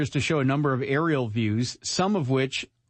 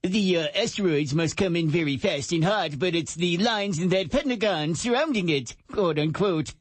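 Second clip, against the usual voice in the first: lightly put-on know-it-all voice; snarky commenter voice; 4 semitones higher than usual. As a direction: read it as a snide online pedant. Continues snarky YouTuber voice.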